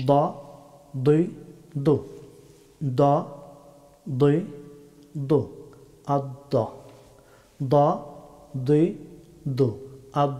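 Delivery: "দ, দুই, দু" as heavy Arabic d; Arabic letter dad. Shown as a demonstration. Teacher has learners practise the difficult dad, heavy d. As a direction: press tongue side to upper molars on "দ, দুই, দু". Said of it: "খুব খেয়াল করে শুনুন".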